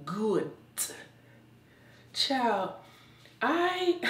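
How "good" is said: "Good" closed with a sharp T; T on the end. Real, not acted. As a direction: say "Good" so it ends in an audible T. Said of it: "with a T".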